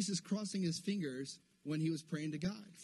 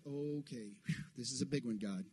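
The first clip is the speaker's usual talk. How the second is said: low, hushed aside with a blown-out breath; under his breath; 5 semitones lower, 8 dB quieter than usual. Acted. Imagined Jesus facing Lazarus's tomb, under his breath. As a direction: mutter it softly as a daunted private prayer. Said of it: "under his breath is like".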